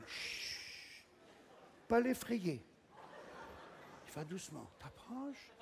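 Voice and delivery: whispered, very soft; creeping hush. Acted. Stalking the ball in the toilet, a soft whisper. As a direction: sneak up without a sound.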